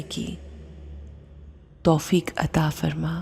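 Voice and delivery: measured supplication with long pauses; calm dua in a meditation voice; heartfelt prayer. Real, not acted. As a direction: pray aloud unhurriedly, phrase by phrase, letting each plea settle. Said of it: "एक बहुत ही खूबसूरत दुआ से करते हैं".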